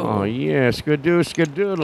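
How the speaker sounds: put-on old-timey voice. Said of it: "I'm talking old-timey".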